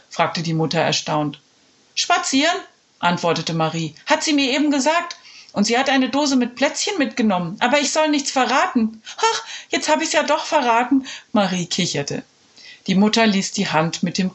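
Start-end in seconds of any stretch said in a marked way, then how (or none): 2.0-11.1 put-on high, chirpy little girl's voice. Marie telling her mother, high and chirpy. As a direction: chatter like a small child.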